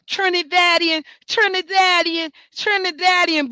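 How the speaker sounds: lightly mocking a repeated proud shout; mock hollering. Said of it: "a rapper ... how you keep hollering".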